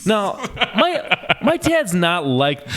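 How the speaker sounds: high, laughing through the words. Real, not acted. Son telling about his dad's verdict, laughing as he talks. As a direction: talk while cracking up.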